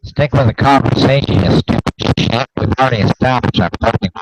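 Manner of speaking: nasal pinched nerd voice; pinched nose impression. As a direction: talk through pinched nostrils. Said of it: "sounds like you're holding your nose now".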